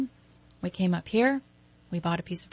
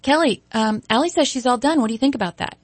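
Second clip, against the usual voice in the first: mentor announcing; 6 semitones higher, 6 dB louder than usual. Retold or imitated. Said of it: "she's like".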